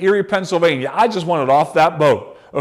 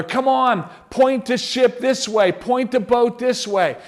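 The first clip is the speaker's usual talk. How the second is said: yelling at each other; 6 semitones higher than usual. Retold or imitated. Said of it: "they're yelling at one another".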